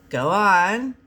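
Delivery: eager urging. Acted. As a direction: push him to continue. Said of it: "Robin urged".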